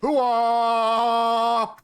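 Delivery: booming military hoo-ah cheer; loud gung-ho soldier. Acted. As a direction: shout it like a pumped-up soldier. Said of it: "it sounded like you were falling to your death".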